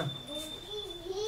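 high, slow, stretched-out phrase; resigned, stretched "De todos modos"; drawn-out resigned sigh. Retold or imitated. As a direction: let "De todos modos" rise high and drag out slowly. Resigned reply to his son.

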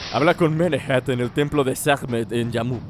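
reads the names in a hammed-up Arabic accent; mock Arabic accent reading the quest. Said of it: "Soy bueno pronunciando y hablando como árabe".

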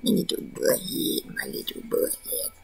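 soft whisper to the pet; whispered pet talk. Real, not acted. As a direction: whisper it lovingly.

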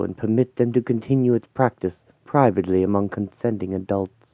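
gracious aristocrat writing to a friend; refined old lady. Acted. Lady Manning writing to her dear friend, lightly voiced elegant lady. Narrator voices Ariel's reply.

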